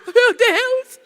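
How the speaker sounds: high, hammed-up tearful wail; mock crying. Retelling her fright on the phone, mock crying. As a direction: wail it as if bursting into tears. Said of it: "Comecei a chorar".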